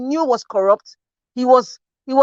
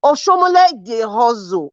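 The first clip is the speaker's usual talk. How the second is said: slow Benin-accented Pidgin, hustle as "hozo". Shown as a demonstration. Panelist repeating a jab at Oshomole, in slow Benin accent. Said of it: "Let me use Benin accent".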